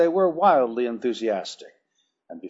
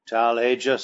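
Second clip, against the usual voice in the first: cold hard voice; 3 dB louder than usual. Acted. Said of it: "in a cold, hard voice".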